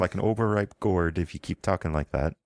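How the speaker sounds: a Southern Isle healer scolding her patient to lie still; thick Southern Isle accent. Acted. Priestess warning the wounded rider not to sit up, thick Southern Isle accent. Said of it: "in a thick Southern Isle accent".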